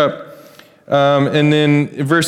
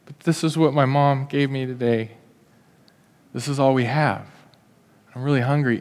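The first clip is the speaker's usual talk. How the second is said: put-on reluctant little boy; 5 dB quieter than usual. Little boy reluctant to give lunch.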